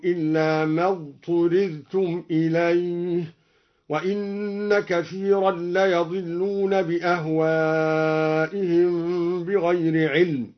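فصل read fuṣṣila and حرم read ḥurrima; slow recitation in the passive voice. Shown as a demonstration. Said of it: "على البناء المجهول هكذا".

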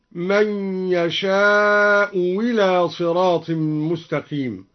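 إلى after يشاء begun with w, "wila"; slow recitation, replace the hamza of إلى with a w; hamza turned to waw. Shown as a demonstration. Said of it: "أو أبدلها واوا".

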